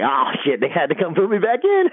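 retold gloating through laughter; rising high pitch, breaking into a laugh. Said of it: "So he's, like, laughing".

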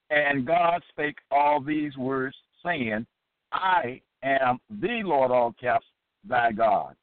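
slow, deliberate Bible reading; solemn, drawn-out recitation of scripture. Acted. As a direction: read the verse out weightily, word by word. Reads scripture aloud.

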